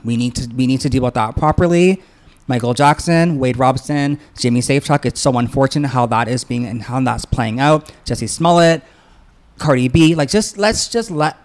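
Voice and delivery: loud and fired up, pushing hard; really worked up, voice rising. Real, not acted. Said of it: "I'm just so worked up".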